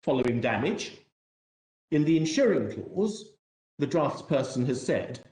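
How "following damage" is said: "following" set apart after a pause, then "damage"; stress on FOLLOWING. Shown as a demonstration. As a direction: point up the word "following" deliberately. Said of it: "the emphasis I placed on following".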